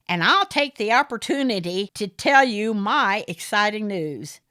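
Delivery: high, loud smarmy gentleman voice; fawning over Aideen, the smarmy caller; Morris, oily suitor. A narrator's reading. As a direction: purr it like a pushy suitor.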